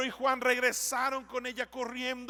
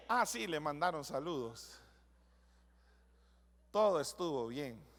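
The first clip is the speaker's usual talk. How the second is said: lower, softer, offhand husband reply; lazy husband answer; 9 semitones lower, 6 dB quieter than usual. Retold or imitated. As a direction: shrug it off like a bored husband. (respuesta desganada, baja y suave del esposo)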